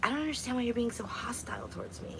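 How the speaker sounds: hushed mock mother. Mother answering her hostile daughter on the phone, whispered hurt. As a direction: imitate her wounded hush. Mother voiced in retold argument.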